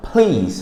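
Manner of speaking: please with a strong puff on the p; aspirated p. Shown as a demonstration. Teacher repeating the breathy p demo. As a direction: push air out on the p of Please. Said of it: "Fala um som soprado".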